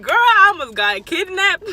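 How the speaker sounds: high, loud and drawn out; hammed-up shock, stretching the words; dramatic exclamation. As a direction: exclaim it like big gossip to a friend. Retold dramatic claim after the scare.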